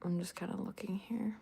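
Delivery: breathy murmur to herself; whispering. Real, not acted. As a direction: whisper it under your breath. Talking to herself while checking chat.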